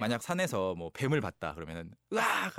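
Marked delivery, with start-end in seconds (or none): 2.1-2.6 short mock shriek of fright; demonstrated scream. Shown as a demonstration. Hiker seeing a snake, mock frightened scream. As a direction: let out a brief startled yell. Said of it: "그게 scream이 되겠죠".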